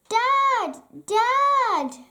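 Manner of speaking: high, loud call for dad; child calling dad, urgent. Acted. Said Daisy.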